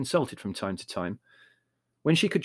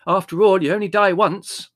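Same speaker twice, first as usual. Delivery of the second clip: defiant; 8 semitones higher, 10 dB louder than usual. A narrator's reading. Margot retorts to Mother.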